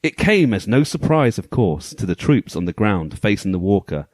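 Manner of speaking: dramatic storybook narration; story voice. Pretend. Host reading the game manual's story to co-hosts, story voice. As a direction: read it out like a pulp sci-fi tale, measured and weighty. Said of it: "my story voice on".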